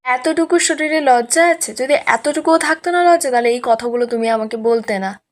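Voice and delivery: mildly indignant scolding; retold anger. Mother shames Mouli for driving Aniruddha out, mildly angry retelling. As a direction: lightly act out an angry mother. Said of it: "Ishani রেগে গেছে".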